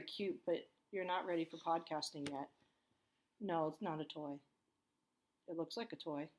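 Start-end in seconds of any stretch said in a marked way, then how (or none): none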